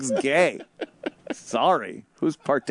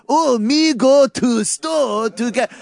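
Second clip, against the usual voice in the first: imitating a broken-English Asian accent, slow, higher and louder; mock Asian accent; 9 semitones higher, 5 dB louder, slower than usual. Showing his co-host the accent people call racist, in a slow, loud mock Asian accent. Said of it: "an inflection and this type of speech pattern".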